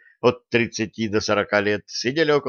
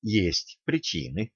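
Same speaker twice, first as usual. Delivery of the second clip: soft, slow, hesitant reply; hesitant mumble; 2 semitones lower, 7 dB quieter, slower than usual. A narrator's reading. Student dodging coach's question, soft slow hesitation. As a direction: hold back, unsure. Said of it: "замялся юноша".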